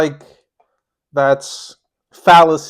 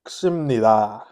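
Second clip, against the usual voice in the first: Korean mukbang intro; 2 semitones higher, much faster than usual. Pretend. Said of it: "I don't know if that last part was right".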